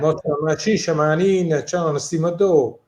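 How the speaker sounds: a lightly voiced Bari dialect, said in a natural way; Barese dialect. Shown as a demonstration. Asked to say something in Barese, he answers in a relaxed Bari dialect. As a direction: speaks a few lines of Barese, warmly. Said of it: "in dialect of Bari".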